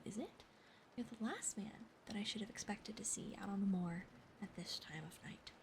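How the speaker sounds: hushed, breathy-free whisper telling the tale; whispered story reading. Acted. Streamer whispering a Sherlock Holmes chapter to chat, whispered narration. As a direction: read the mystery aloud in a whisper.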